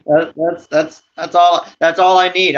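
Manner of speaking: laughing. Real, not acted. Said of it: "reacting to the impression".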